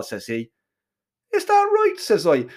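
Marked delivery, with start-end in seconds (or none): 1.3-2.0 sarcastic high disbelief; mocking. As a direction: scoff it, pitch jumping up. Mocking challenge to rival.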